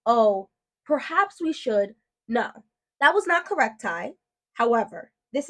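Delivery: slow, prissy, put-on genteel phrasing; mock polite teacher. Mother mocking the teacher's suggested wording, slow and prim. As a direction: mimic the over-gentle teacher script, drawn out. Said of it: "She just wanted me to say".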